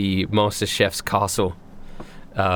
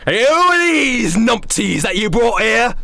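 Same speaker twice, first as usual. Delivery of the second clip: high, louder mock outrage; indignant question; 12 semitones higher, 5 dB louder than usual. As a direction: squeal it like an offended clown. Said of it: "Ron goes".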